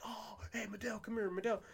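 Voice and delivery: calling over. Retold or imitated. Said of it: "he would call me over".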